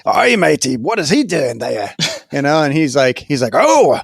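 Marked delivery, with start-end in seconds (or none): 0.0-2.0 lightly voiced pirate; a hint of a playful pirate. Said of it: "talk like a pirate to him". 3.5-4.0 high, hammy pirate voice. Retold or imitated. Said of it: "talk like a pirate to him".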